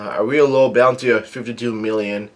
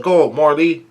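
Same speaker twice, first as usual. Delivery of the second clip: higher-pitched mock call; retold yell; 4 semitones higher, 4 dB louder than usual. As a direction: call it out in a mild imitated yell. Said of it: "somebody yells out".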